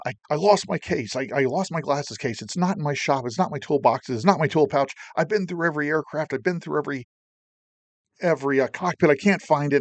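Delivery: rushing, panicked. Retold or imitated. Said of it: "I'm rushing on".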